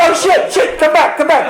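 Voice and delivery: high, loud panic calling her back; panicked yelling. Retold or imitated. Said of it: "And I was like".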